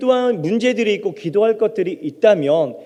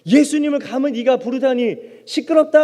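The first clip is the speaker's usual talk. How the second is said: higher-pitched acted rebuke; mock scolding from onlookers; scolding crowd; 5 semitones higher than usual. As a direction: hush someone indignantly. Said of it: "주위에 있는 사람들이 입을 막고".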